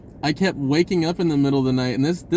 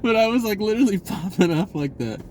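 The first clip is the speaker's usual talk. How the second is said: laughing; 6 semitones higher than usual. Real, not acted. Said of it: "I don't know why I'm laughing so hard".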